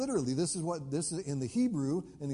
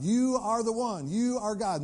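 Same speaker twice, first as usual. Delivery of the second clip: high, loud prayer climax; fervent declaration; 6 semitones higher, 5 dB louder than usual. Retold or imitated. Elijah declaring God before the prophets, fervent prayer. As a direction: proclaim it to God with full conviction.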